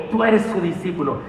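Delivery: "Tú eres su discípulo" with a light scornful weight on "eres"; a hint of a sneer toward the healed man; mildly contemptuous. Shown as a demonstration. Pastor showing the accusers' scorn to the congregation, mildly contemptuous. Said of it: "Fue así despectivo".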